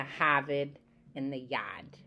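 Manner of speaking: "Harvard" and "yard" with no R; Boston dropped R's. Shown as a demonstration. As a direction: say "Harvard" as Hah-vid, "yard" as yahd. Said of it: "we have that example here".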